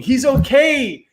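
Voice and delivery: high, excited relief, slowing at first; shrieking with joy. Acted. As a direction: shriek the good news. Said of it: "He ran along the sidewalk shrieking".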